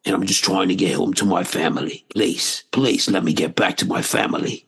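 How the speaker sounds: lightly voiced London-accented movie hero; Idris Elba. Pleading to get home to his family, lightly Idris Elba. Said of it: "it's, it's Idris Elba".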